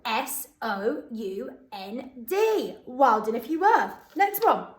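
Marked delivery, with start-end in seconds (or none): 0.0-2.8 slow letter by letter; spelling aloud. Shown as a demonstration. Teacher spelling the word for pupils to check. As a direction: spell each letter out slowly. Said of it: "let's see if you're right".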